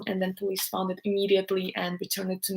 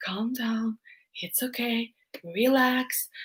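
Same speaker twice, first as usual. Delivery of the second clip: soft soothing reassurance; calming; 6 dB quieter, slower than usual. Retold or imitated. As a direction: gently settle a crying girl. Police calming crying girl.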